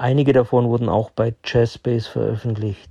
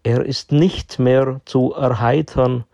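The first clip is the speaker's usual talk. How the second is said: measured poem reading with deliberate pauses; poem recitation; slower than usual. Acted. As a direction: recite it line by line, pausing after each. Recites his own chess poem. (Gedicht vortragen, mit deutlichen Pausen)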